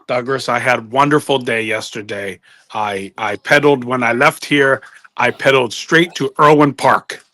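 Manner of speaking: lightly put-on comic broken English; broken-English character voice. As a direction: play the pedalling rickshaw man.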